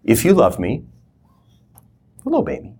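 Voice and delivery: tender and inviting; tender invitation. Shown as a demonstration. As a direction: say it as a loving offer, not a demand. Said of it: "I think he would have done like this".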